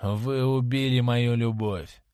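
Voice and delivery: slow, drawn-out mock moan. Dorian turns away on the sofa, slow moan. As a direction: groan the words out slowly. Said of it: "простонал он".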